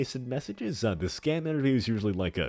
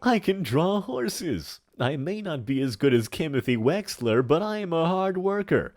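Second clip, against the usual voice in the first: put-on big theatrical old villain voice; hammy stage actor; 6 semitones higher than usual. Plays a hammy character in chat.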